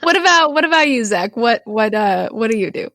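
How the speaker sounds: ordinary delivery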